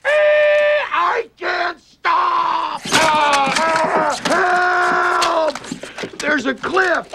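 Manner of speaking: high, loud, very slow terrified cry; panicked shout. Pretend. Driver with failing brakes screaming in panic. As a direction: yell for help as the car won't stop.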